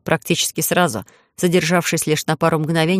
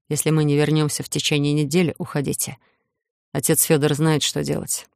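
grave voice; 2 semitones lower, 3 dB quieter than usual. Acted. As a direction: speak like from the grave. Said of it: "могильного голоса своего главы".

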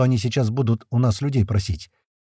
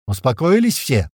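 stern call to order; 2 semitones higher, 4 dB louder than usual. A narrator's reading. Narrator silencing the room.

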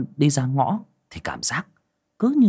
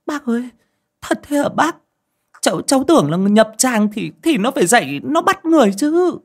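high, pleading questions; scared young woman; 5 dB louder than usual. A narrator's reading. Dung asking the aunt about the corpse, high and scared. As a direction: ask in fright. Daughter Dung asks fearfully.

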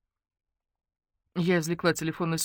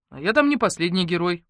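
ordinary delivery, nothing marked

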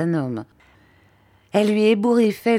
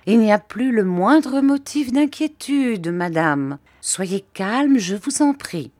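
soothing doctor; 5 semitones higher than usual. Acted. Doctor keeps soothing aunt.

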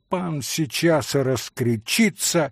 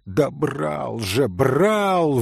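exclaiming; much slower than usual. Acted. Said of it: "воскликнул Митя".

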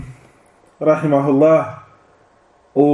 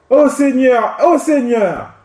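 raised, pleading call to the Lord; pleading cry; 6 semitones higher than usual. Retold or imitated. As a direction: plead upward to God. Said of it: "et qui dit". (appel suppliant, voix haute)

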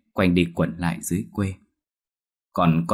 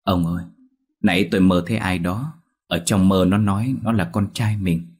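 a touch of choked-up sobbing; understated weeping while she speaks; lightly voiced wife, teary and shaken; mild tearful telling. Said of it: "vừa khóc vừa nghẹn ngào kể lại".

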